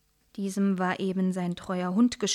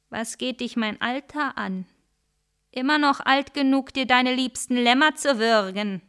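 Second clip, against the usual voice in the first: angry; 4 semitones higher, 4 dB louder than usual. Acted. Wolf angered.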